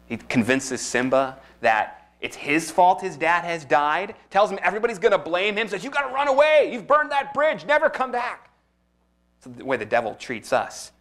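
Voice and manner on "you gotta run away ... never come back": Scar. Acted. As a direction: push him out like a scheming lion villain. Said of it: "He's like Scar from The Lion King".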